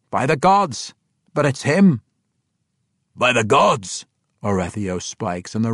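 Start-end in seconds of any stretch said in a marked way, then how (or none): 0.1-2.0 By the gods said sure and firm, falling; complete confidence. Acted. Parson Glaive recognizing Bruner, confident. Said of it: "said with complete confidence". 3.1-4.0 By the gods as a crowd's shout; shouted together. Acted. Dwarves all shouting together, joyful. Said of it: "all shouted together".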